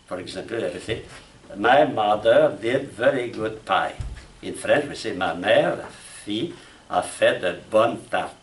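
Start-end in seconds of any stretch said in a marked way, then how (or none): 1.6-3.9 "My mother did very good pie" slow and evenly weighted; even tonality. Shown as a demonstration. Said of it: "all the words the same tonality". 5.1-8.3 French "Ma mère", even words, accent on final "tartes"; accent at the end. Shown as a demonstration. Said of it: "at the end, the accent".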